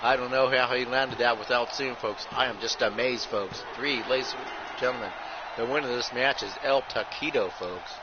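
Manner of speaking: running ringside commentary calling every move; wrestling play-by-play. Acted. Commentator calling a blindfolded wrestling match to viewers, play-by-play. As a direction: call the match move by move, punching each folks.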